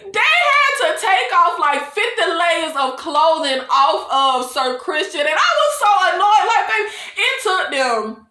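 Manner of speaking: high, laughter-filled exasperation; laughing retelling. Real, not acted. Vlogger recounting fifty layers of clothing, laughing. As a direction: tell it through real laughter.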